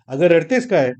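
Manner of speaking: husband snapping at his crying wife. Acted. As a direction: snap at her, fed up. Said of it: "खेकसलंच".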